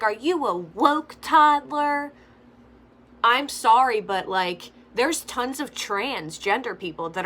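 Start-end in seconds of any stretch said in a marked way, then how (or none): 0.0-2.1 higher, slow sing-song mommy voice; mock mom question. Mocking the mom quizzing her toddler. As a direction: ask it like a doting mother. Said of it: "she's like".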